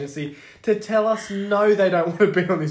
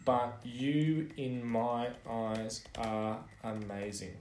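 mock formal letter. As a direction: dictate it like a grovelling fan. Mock fan letter dictated.

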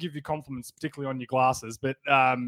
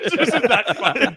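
words half-lost in laughter, drawn out; can't stop laughing mid-sentence; 6 semitones higher, 5 dB louder, slower than usual. Real, not acted. Recalling his mate's face, laughing through the words.

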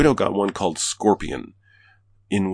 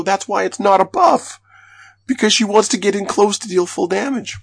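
emphatic retort; 13 semitones higher, 5 dB louder than usual. Retold or imitated. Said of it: "I go".

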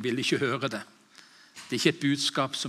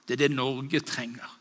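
normal talking voice

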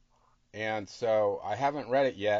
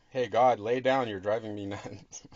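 mock scolding God; 4 dB louder than usual. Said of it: "You're, you're saying that to God?".

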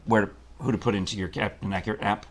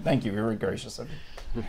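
gravelly voice; 6 dB quieter than usual. Real, not acted. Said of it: "My voice sounds a little gravelly".

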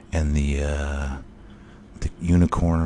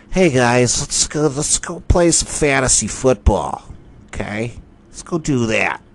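rally the guys in a higher put-on voice; mock fan; 6 semitones higher than usual. Fan rounding up his friends, in a high goofy voice. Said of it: "and they, uh".

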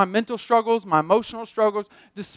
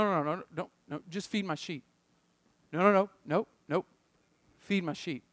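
quiet insistence; 4 semitones lower, 7 dB quieter than usual. Acted. Jesus voiced insisting to Peter.

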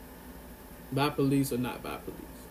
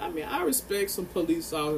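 some pressed a little harder; stress on some. Real, not acted. Podcaster on police, stressing the word some. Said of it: "stress the word some".

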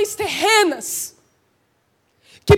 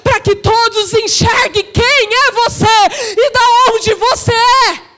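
rousing shouted exhortation; full-force preaching; 3 dB louder than usual. Real, not acted. Preacher urging the church to raise its banner, rising fervour. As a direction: drive it on, building to a shouted peak.

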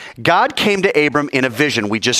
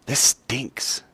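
whiny son; 6 dB quieter, much slower than usual. Acted. Son complaining while working.

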